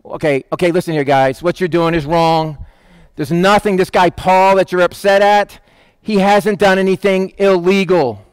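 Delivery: calm a crowd with mild authority; a hint of a level-headed official; town clerk. Town clerk acted out, calming rioters.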